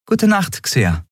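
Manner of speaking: quick reply from the captain; Endriel's goodnight. Acted. Endriel antwortet. (etwas höher, knapp: Gute Nacht)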